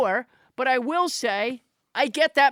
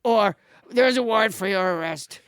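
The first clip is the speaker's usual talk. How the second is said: Trump fixer voice. Retold or imitated. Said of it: "it's one of Trump's fixers".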